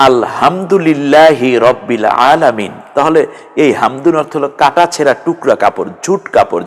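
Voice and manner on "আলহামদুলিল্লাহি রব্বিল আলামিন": আলহামদুলিল্লাহি slow, with the wrong হা sound; slow recitation with the mistaken হা; recited with the other ha. Shown as a demonstration. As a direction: recite slowly, swapping in the open হা. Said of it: "যদি এই হাটা দিয়ে বলে".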